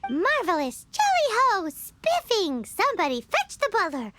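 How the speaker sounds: hammed-up upper-class British accent, lightly done; mock posh British. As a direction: play at being a posh British aristocrat. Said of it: "so well-spoken to get a job".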